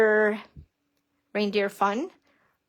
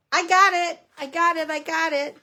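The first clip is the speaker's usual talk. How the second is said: higher, bouncing repeats of victory; excited triumph; 7 semitones higher than usual. Real, not acted. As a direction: cheer yourself on. Triumph after struggling.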